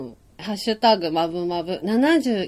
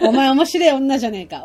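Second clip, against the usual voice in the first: a bit louder, higher arrogant tease; cocky heartthrob line; 4 semitones higher, 5 dB louder than usual. Retold or imitated. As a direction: toss it off like a smug idol. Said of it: "っていうやつよ". (俺様キャラの台詞)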